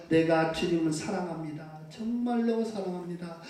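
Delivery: soft, hushed sincere confession of love; tender confession. Shown as a demonstration. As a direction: say it softly, meaning every word. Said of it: "이렇게 하시기 바랍니다". (부드럽고 조용한 사랑 고백)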